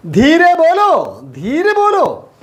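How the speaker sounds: slow, high sing-out of the phrase; drawn-out high teaching model; high-pitched drill. Shown as a demonstration. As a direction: lift it right up and stretch the vowels. Same phrase drilled again, much higher.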